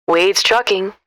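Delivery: smooth man's voice picking up a business line; smooth honey voice. A narrator's reading. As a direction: answer like an easygoing trucker, smooth as honey. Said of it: "a voice that sounds as smooth as honey".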